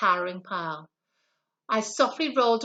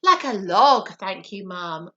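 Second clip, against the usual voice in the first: polite; 3 semitones lower, 4 dB louder than usual. A narrator's reading. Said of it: "answered politely".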